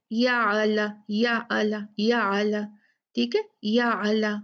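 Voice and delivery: याला with a bounced, echoing ain; wrong qalqala. Shown as a demonstration. Teacher shows the qalqala mistake to avoid. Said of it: "नहीं, ऐसे नहीं".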